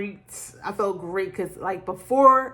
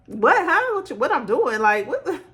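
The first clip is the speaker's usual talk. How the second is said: confused surprise; 5 semitones higher than usual. Retold or imitated. Her confused reaction to the call.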